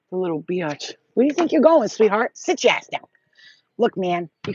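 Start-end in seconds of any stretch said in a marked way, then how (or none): 1.1-3.1 mock menace. Cat planning escape.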